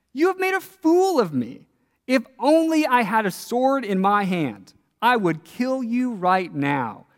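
high, forceful outburst from a furious prophet, slowing at the end; Balaam rages at his donkey, high and hard; angry Balaam. Acted. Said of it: "Balaam's got a bit of an anger issue".

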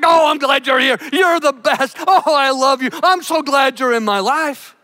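a mild hint of an adoring dog; a touch of a happy dog greeting its owner. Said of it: "They're just like".

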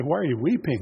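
plain, even question; angels asking. Retold or imitated. Angels ask the weeping Mary, plainly. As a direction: ask it simply, like a passing angel. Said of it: "And they say".

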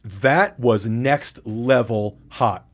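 drawn out word by word; slow, awed quote. Retold or imitated. Storyteller quoting a partner's reaction, slow and awed.

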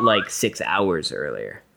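hushed secret whisper. Real, not acted. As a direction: whisper it so nobody hears.

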